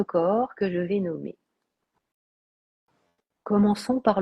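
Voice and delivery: calm, unhurried yoga nidra voice; guided meditation. Acted. Teacher guiding listeners through relaxation and body awareness, calm meditation voice. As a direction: guide them toward half-sleep, phrase by phrase with long pauses.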